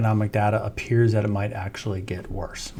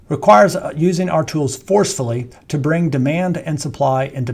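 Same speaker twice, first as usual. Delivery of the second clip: REQUIRES higher and louder, then FORCEFULLY stressed; added emphasis; 5 semitones higher, 4 dB louder than usual. Real, not acted. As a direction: read the quote emphatically, hitting "Requires" and "forcefully" hard. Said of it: "I'm adding emphasis".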